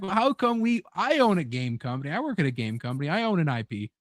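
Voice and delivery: a hint of a greedy boss; mock corporate executive. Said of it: "it's like".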